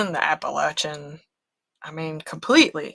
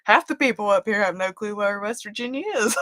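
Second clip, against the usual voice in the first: quick line breaking into laughter; retold, laughing incredulity; amused disbelief; 2 semitones higher, faster than usual. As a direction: rush it out and crack up at the end. Retelling, cracking up.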